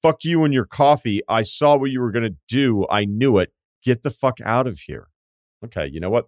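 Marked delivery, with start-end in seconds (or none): 0.0-5.1 hammed-up hostile stranger. Voicing the stranger who smacked the coffee, mock hostile. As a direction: play the crazy stranger's snarl. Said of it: "making up for the not swearing".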